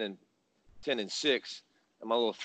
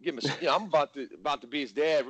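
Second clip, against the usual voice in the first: fired-up threat; 3 dB louder than usual. Retold or imitated. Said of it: "I said it like that".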